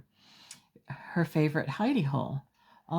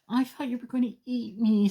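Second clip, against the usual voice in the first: frightened octopus; 9 semitones higher, faster than usual. Acted. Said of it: "said Olive".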